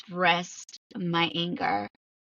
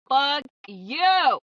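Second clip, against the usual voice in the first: high, loud, very drawn-out curse; retold angry outburst; 8 semitones higher, 6 dB louder than usual. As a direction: let the retold rage out, stretching each word. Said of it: "let's just get angry about it".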